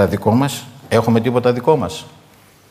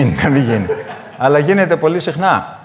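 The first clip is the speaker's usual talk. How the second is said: laughing; 3 semitones higher than usual. Real, not acted. Joking with the congregation.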